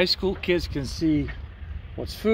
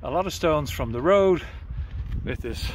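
breathless, catching air between phrases; out of breath. Real, not acted. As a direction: talk while still winded from hauling stones. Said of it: "I'm out of breath".

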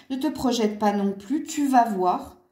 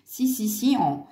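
a light, laughing hint of an Asian accent; mock Asian accent; 3 semitones higher than usual. Tarot reader reassuring Scorpios, in a mock Asian accent. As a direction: slip into a playful fake Asian accent, half laughing. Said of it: "je prends un accent asi-, asiatique".

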